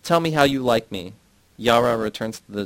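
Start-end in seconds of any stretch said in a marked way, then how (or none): 0.0-1.1 loud, high call across the house; mother shouts for her daughter from the bedroom, loud. A narrator's reading. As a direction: shout her name, then demand. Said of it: "Myrna shouts".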